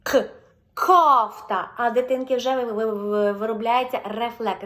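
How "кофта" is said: Кофта, loud, К pushed out clearly; голосно, чітке К; loud Кофта with hard К. Shown as a demonstration. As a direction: show the child a clean К in Кофта. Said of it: "Бачите, я не чіпаю язичок".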